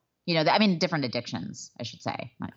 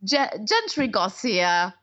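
high-pitched mock British interventionist; jokey, much higher parody of an interventionist; the speaker as Candy; 7 semitones higher than usual. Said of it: "as the person playing Candy Finnegan".

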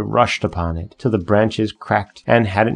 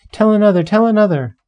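high, louder eager plea; crying out; 12 semitones higher, 5 dB louder, faster than usual. A narrator's reading. Children begging the old man for more, high and loud. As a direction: clap and beg for more. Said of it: "clapped their hands and cried".

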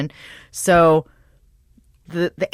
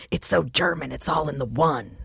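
a light imitation of friend Trish, a touch softer; Trish impression; 6 dB quieter than usual. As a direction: quietly mimic a friend admiring the framed jersey. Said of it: "the impression of Trish".

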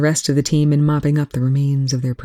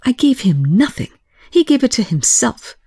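shouting back; 9 semitones higher than usual. Acted. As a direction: throw the shout right back at him. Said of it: "Telford shouted right back".

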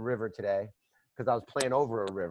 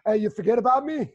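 high, louder mock whine; imitating Gabe; 10 semitones higher, 6 dB louder than usual. Retelling a text from Gabe, high mock whine. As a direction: playfully mimic a friend who feels forgotten. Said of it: "I get a text from Gabe".

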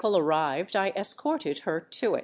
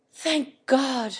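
fervent; 5 semitones higher than usual. A narrator's reading. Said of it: "fervently clasping his hands together".

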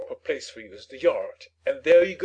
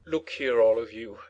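entreating; 5 semitones lower than usual. A narrator's reading. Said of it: "he said entreatingly".

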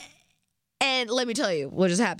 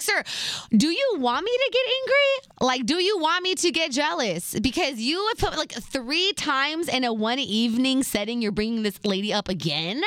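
high, indignant questioning, easing down toward the end; mock-angry challenge starting high; retold temper; 4 semitones higher than usual. Girlfriend confronting him for bringing her up again, losing her temper. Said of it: "Maybe my temper took the best of me".

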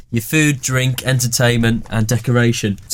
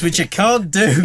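normal talking voice

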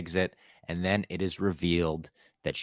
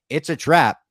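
quoted catchphrase, louder and higher; retold exclamation; 7 semitones higher, 8 dB louder than usual. Host retelling what he tells the Mon Calamari, exclaimed. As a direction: call it out as a mock alarm. Quoting a famous film line.

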